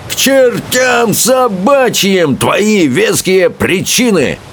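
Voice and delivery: high, slow, booming dismissal; rumbling Bertha. A narrator's reading. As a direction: roar it down at him. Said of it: "зарокотала большегрудая Берта".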